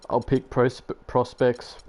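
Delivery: words broken by hiccups; hiccuping. Real, not acted. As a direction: talk through the hiccups. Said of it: "I'm hiccuping".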